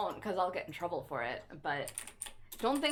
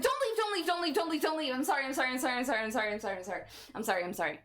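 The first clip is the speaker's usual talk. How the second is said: high, louder frantic Kermit pleading, settling down; 6 semitones higher, 3 dB louder, faster than usual. Retold or imitated. Streamer panicking at viewers leaving, Kermit-style pleading. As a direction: flail like Kermit begging them not to go. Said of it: "I'm gonna Kermit".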